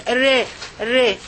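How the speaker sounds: "re" as one short syllable; r followed by a short front vowel in "re"; ra with kasra. Shown as a demonstration. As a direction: isolate "re" clearly for learners. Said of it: "It is the ra with the kasra".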